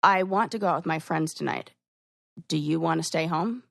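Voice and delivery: plain matter-of-fact ask; direct statement. Shown as a demonstration. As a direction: state what you want, no hedging.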